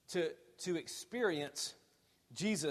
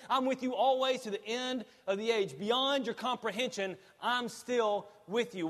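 raised, emphatic pulpit voice; forceful preaching; 6 semitones higher, 5 dB louder than usual. Real, not acted. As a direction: drive each phrase home to the congregation.

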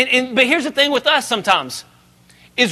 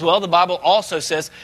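calm, unhurried Jesus voice, a bit lower; composed and steady; very cool and calm; 5 semitones lower than usual. Retold or imitated. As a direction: say it cool and collected. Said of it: "very cool, very calm".

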